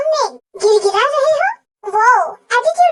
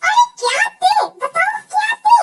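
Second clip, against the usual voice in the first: annoyed shout; 6 semitones higher than usual. Acted. Annoyed demand.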